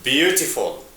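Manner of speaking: "Beautiful" with the weight on "Beau"; "Beautiful" said as BEAU-ti-ful; stress on first syllable. Shown as a demonstration. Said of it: "The stress is in the first syllable".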